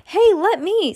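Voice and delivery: put-on high-pitched child character complaint; protesting kid. A narrator's reading. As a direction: pipe up like a left-out little brother. Kid protests being left out.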